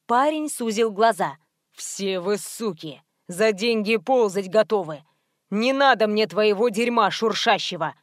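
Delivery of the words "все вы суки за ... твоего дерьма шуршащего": lightly voiced thug. Contemptuous thug.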